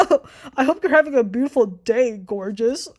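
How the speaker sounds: imitated coy flattery; mock coy. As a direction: lay on the fake sweet talk. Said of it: "don't fucking be coy".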